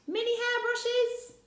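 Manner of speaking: mock astonishment; amazed question. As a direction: Rossetti laughing at the idea of hairbrushes. Rossetti questions the list.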